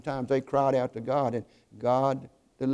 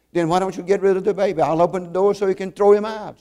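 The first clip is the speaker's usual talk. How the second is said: challenging pastor; 5 semitones higher, 5 dB louder, faster than usual. A narrator's reading. Pastor provokes the grieving mother.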